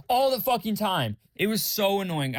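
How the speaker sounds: high-pitched real exasperation; really annoyed. Real, not acted. Venting about a friend's constant checking, exasperated. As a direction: vent it, freshly irritated by the memory. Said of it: "really annoyed thinking about it".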